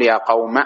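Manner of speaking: "قوم" ending in short a; fatha only. Shown as a demonstration. Teacher dropping the alif, "قوم" ending on a fatha. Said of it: "الفتحة هذه فقط دليلًا عليها".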